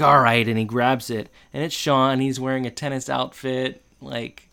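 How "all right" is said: giving in. Retold or imitated. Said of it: "then he's like".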